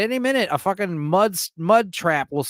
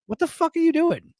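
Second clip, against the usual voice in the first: mock rapper impression, pitched much higher; cartoonish higher take on a rapper's line; exaggerated rapper impression; 12 semitones higher than usual. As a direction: repeat it in a hammed-up, squeaky disbelief. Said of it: "he's like".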